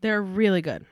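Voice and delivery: talking while crunching pumpkin seeds. Real, not acted. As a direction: chew between the words. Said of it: "If you hear me crunching".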